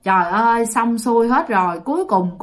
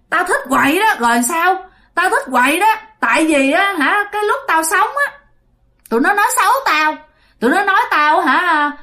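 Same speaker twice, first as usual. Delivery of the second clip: defiant ghost; 4 semitones higher than usual. Acted. Ghost possessing son taunts sorcerer.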